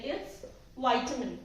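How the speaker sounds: vitamin as vye-ta-min, slow; vitamin with long i; right way, slow. Shown as a demonstration. Teacher modelling vye-ta-min slowly. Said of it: "but नहीं".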